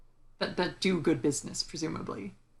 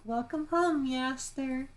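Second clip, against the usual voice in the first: high-pitched mock maid greeting; maid café greeting; 7 semitones higher, slower than usual. Maid greeting a Machamp café customer, high and put-on. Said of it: "whatever the Machamp equivalent of".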